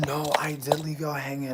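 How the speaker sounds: unvoiced, sheepish whisper; mock whisper. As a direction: whisper the excuse to the chat. Whispered apology to viewers.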